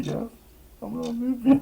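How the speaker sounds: high falsetto singsong; silly high-pitched repeat; squeaky loopy. Real, not acted. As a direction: squeak it like you're cracking up.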